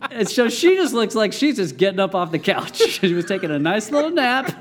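laughing. Real, not acted. Amused by the scene.

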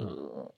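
low, very soft "ugh"; quiet shudder of unease, retold; freaked-out groan. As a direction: groan it low under your breath. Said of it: "I was super freaked out".

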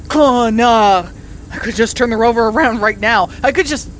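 loud, exasperated threat; angry rant; fuming outburst. Real, not acted. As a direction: vent the frustration at the radio. Fuming at partner.

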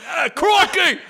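a hammed-up, near-shouted Austin Powers; Austin Powers impression. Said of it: "he's like".

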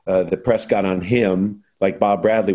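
usual speaking voice

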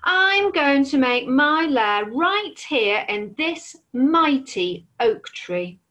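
slow, deliberate dragon. Acted. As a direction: draw it out with menace. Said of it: "said the dragon".

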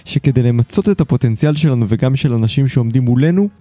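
polished, articulate host introduction; podcast intro read. Acted. Host introduces his guest to listeners, scripted intro read. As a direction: present the show and guest from a script.

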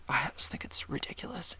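breathy whisper under her breath; hushed, half-secret grumble; whispered aside. Real, not acted. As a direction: drop to a whisper for the jab. Muttered aside about new rule.

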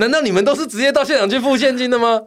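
high, loud laughing question; laughing disbelief. Real, not acted. Laughing disbelief at paying cash.

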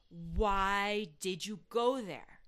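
slow, menacing devil voice. Retold or imitated. Devil interrogating grandma, slow and menacing. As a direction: drag it out like a demon accusing her.

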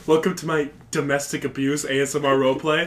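whispered asmr role play. Retold or imitated.

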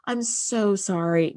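a hint of a caring doctor's sorry; mock sympathy. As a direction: offer a gentle, lightly acted condolence. What the medic should have said.

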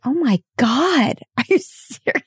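high, slow disbelieving gasp with a laugh; mock-astonished, laughing through it; amazed reaction. Hearing the mother story, laughing amazed disbelief.

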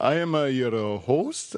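halting mock Italian accent; unsure fake Italian host. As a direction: fumble through a put-on Italian accent. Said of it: "That was my Italian accent".

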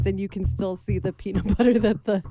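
laughing. Real, not acted. Laughing while describing the scene.

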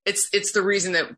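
fighting back tears mid-sentence; choked up. Real, not acted. Therapist moved by families thanking her, voice catching. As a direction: voice catching with real emotion. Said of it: "Sorry, I'm getting emotional".

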